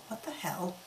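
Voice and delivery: a breathless whispered disbelief; whispered aside. Real, not acted. The reader reacts to the absurd fanfic, whispered. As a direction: mutter it under your breath, baffled.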